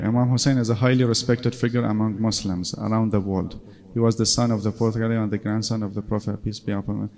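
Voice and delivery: slow, careful read of the English text; slow reading aloud. Acted. Teacher reading AI output slowly to students, careful read. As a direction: read it out word by word for the class.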